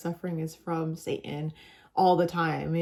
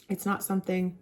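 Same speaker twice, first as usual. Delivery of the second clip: speaking through a yawn; words stretched by a yawn. Real, not acted. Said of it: "sorry, I'm yawning".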